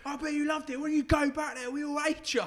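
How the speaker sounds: taunting shout. Retold or imitated. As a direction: point and jeer at the player. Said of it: "Yeah, go".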